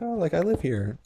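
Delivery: put-on high, casual girl voice; lightly mocked high female voice; imitated girl. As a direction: mimic her offhand answer up high. Voicing the girl's casual answer.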